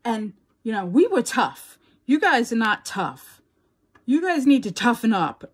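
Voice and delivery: grandfather scolding. Retold or imitated.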